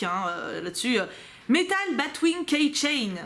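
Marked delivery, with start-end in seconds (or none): 1.5-3.1 slow, halting English read-out; reading English labels with a French tongue; clumsy English. Real, not acted. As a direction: sound out the English words slowly. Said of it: "vous connaissez mon niveau d'anglais".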